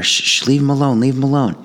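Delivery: put-on high teen voice shushing, leave him alone; calm the rowdy friends down; teen hushing friends. Kid shushing friends to leave the jogger alone, high teen voice. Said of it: "he's shushing all the kids".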